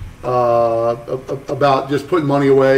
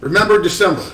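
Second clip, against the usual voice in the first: higher, weighty advice; imitating Mike Malone; 5 semitones higher than usual. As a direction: deliver the motto like a sage. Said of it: "He's like".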